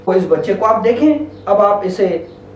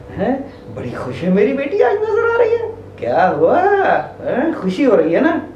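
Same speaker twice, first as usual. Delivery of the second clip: cheerful delight; 3 semitones higher than usual. Shown as a demonstration. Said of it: "दूसरी तरफ वही खुश हो".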